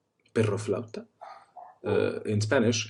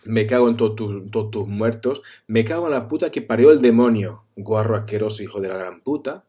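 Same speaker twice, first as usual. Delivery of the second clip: mock Spanish rant; faster than usual. Teaching Spanish curses, a hammed-up furious rant. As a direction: spit out the insults in one rush. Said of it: "we would say".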